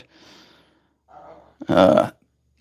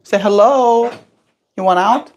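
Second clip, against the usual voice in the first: talking to a pet; 7 semitones higher, 3 dB louder than usual. Real, not acted. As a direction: coo at the bird. Coaxing pet bird.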